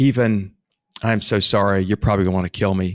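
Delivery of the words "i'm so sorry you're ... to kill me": soft, gentle, pained tone. Demonstrating how to announce a price increase: soft apology, like it hurts. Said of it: "Say it in a soft voice, act like it hurts".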